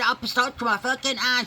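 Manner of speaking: high, loud complaint; stinging eye, loud whine; pained cry. Retold or imitated. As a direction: wail about the stinging eye. In pain from jalapeno eye.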